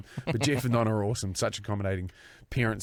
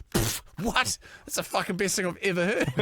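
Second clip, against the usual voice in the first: higher, scoffing delight; tickled, pitched-up glee; 8 semitones higher than usual. Retold or imitated. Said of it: "And Tricky's like".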